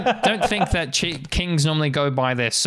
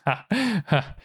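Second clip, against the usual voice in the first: short, separated acted ha-ha; chief's mock laugh; 8 semitones higher than usual. Chief laughs at the young elf, mock laugh. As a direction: laugh drily in two spaced beats. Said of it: "laughs and just goes".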